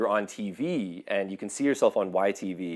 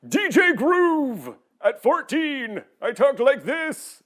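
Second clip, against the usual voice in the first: high, loud, drawn-out teen cartoon voice; hammed-up, high-pitched show-off character voice; put-on DJ Groove voice; 7 dB louder, much slower than usual. Shown as a demonstration. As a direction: belt it out high and slow like a cartoon DJ. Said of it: "I did a voice that I called".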